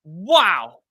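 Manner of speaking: loud amazed wow; floored by the play. Real, not acted. Reacting to the catch.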